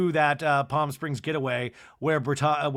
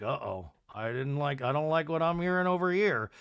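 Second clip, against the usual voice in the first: soothing husband; 3 dB quieter than usual. Retold or imitated. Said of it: "Todd comes rolling over".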